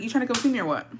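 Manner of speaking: offhand, easy question; a casual ask to come over; casual invite. Retold or imitated. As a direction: toss it out lightly. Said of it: "I was like".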